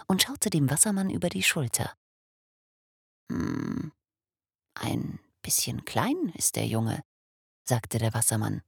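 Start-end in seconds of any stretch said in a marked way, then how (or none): 3.3-7.0 whisper. Acted. Wassermann judging the sleeping baby, in a whisper. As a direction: murmur it under your breath. Father whispering over the crib.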